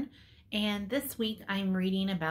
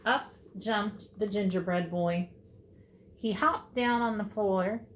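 put-on lilting storybook reading for young children; story read-aloud. A narrator's reading. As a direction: read to kindergartners with measured, lively emphasis.

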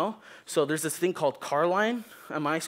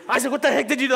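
loud, sharp scolding; mom goes off; 9 semitones higher, 6 dB louder, much faster than usual. Retold or imitated. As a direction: let the sweetness turn sour at once. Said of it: "she just goes off".

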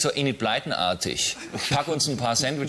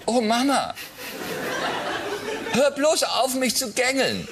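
high daughter voice; 9 semitones higher, slower than usual. Acted. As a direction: play the annoyed teenage daughter. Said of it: "Ich unterscheide es stimmlich ein bisschen".

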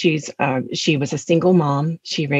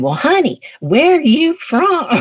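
mocking waitress; 12 semitones higher, 4 dB louder than usual. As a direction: coo it like a teasing waitress. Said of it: "mocking my accent".

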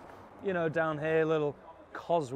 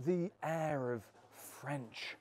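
slow, mock-posh drawl on French royalty; a hint of a haughty aristocrat; 3 dB quieter, much slower than usual. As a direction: put on a lightly hammed-up snooty tone. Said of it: "la-di-da".

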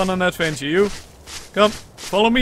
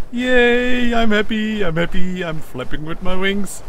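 happy cheering; 2 semitones higher, 5 dB louder than usual. Real, not acted. Baby dino hatched, cheering.

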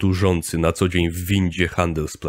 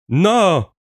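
much higher, louder yell; impatient howl; 11 semitones higher, 5 dB louder than usual. A narrator's reading. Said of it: "zawył ponownie zniecierpliwiony chłop". (zniecierpliwione wycie)

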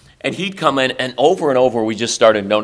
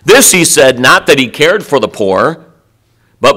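louder, firm reading of the verse; corrected reading; 6 dB louder than usual. Shown as a demonstration. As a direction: read it straight and forceful, setting the record right.

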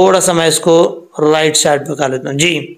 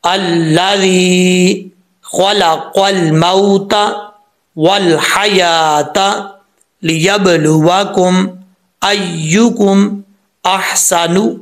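slow, measured Quran reading with stretched vowels; practice recitation; much slower than usual. Shown as a demonstration. Teacher reading the line for practice, slow careful recitation. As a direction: recite phrase by phrase, drawing out long vowels. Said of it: "practice के तौर पे पढ़ लेते हैं".

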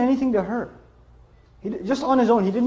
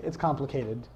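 much softer, lower "It's complicated."; coy wife; 7 semitones lower, 9 dB quieter than usual. Retold or imitated. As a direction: mutter it like an evasive wife. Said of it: "she says what pretty much any wife would say".

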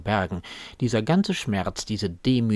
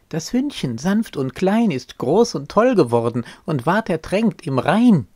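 high, loud interjection in a little sister's voice; little sister calling out; 8 semitones higher, 7 dB louder than usual. A narrator's reading. Little sister interrupts with news of the drowned dog, loud high call. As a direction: pipe up loudly, pitched well above the narration. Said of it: "Schwesterchen rief dazwischen".

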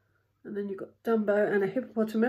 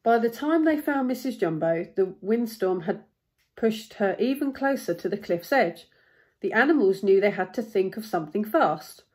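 animated read-aloud, lifting key words; expressive storybook narrator; story narration. A narrator's reading. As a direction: read a picture book with building urgency.

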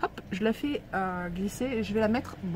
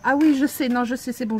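being tickled; 4 semitones higher, 10 dB louder than usual. Real, not acted. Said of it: "ça chatouille".

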